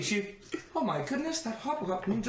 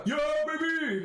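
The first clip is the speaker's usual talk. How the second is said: celebratory shout; 8 semitones higher than usual. Acted. Guard celebrates the victory, excited shout. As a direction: punch it out like a fan.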